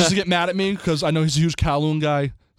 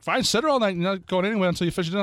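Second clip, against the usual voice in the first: raised-pitch parental ultimatum; imitated stern father; 5 semitones higher, faster than usual. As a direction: rattle off a dad's order. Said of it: "my father's like".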